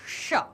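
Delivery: "शा" as ष, tongue curled back; retroflex sha. Shown as a demonstration. Teacher showing the tongue bend, retroflex "शा". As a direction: bend tongue without full contact on "शा". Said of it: "वहां मुड़ जाती है".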